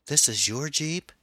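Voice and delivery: put-on girl realizing she stole his Jeep, stunned; shocked girl. A narrator's reading. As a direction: gasp it out in disbelief.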